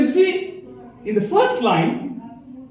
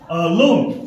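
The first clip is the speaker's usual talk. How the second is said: "Alone" with the stress on "lone"; second-syllable stress; 4 semitones lower than usual. Shown as a demonstration. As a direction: say "Alone" with a light first syllable and firm second. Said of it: "stress on the second syllable".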